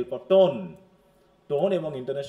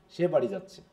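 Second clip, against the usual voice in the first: low, falling end on যাচ্ছে; statement without rise; 4 semitones lower than usual. Shown as a demonstration. Teacher asking if this is a statement, falling tune on যাচ্ছে. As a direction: say it as fact, যাচ্ছে dropping. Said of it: "ইন্টোনেশনের rising নাই".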